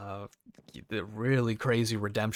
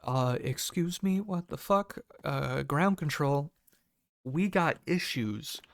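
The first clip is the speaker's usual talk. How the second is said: alarmed disbelief; 4 semitones higher than usual. Retold or imitated. Inner panic at machete news.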